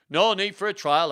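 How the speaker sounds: loud, high dismissal; forceful royal refusal; commanding king. Acted. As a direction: overrule him at full voice. King overrules bishop.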